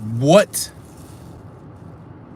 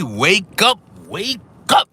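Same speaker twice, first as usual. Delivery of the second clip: high, loud wake-up holler; playful wake-up call; 8 semitones higher, 5 dB louder, much slower than usual. Pretend. Streamer rouses morning viewers, calling out high and loud. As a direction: call it out high, rousing sleepers.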